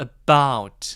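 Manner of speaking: about with weight on second syllable -bout. In a Korean lesson on English word stress, stress on -bout of about. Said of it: "about은 강세가 뒤에 있어서".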